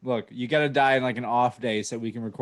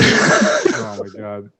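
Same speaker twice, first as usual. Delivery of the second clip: laughing; 4 semitones lower, 8 dB louder, much slower than usual. Real, not acted. Shocked laughing exclamation.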